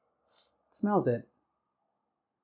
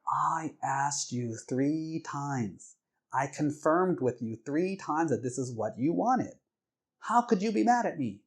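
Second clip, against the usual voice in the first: slow, stretched indignation building higher; so pissed; 4 semitones higher, slower than usual. Retold or imitated. Wife blaming husband after confirming three times, furious. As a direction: imitate outrage, drawing out words then climbing in pitch. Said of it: "She was so pissed".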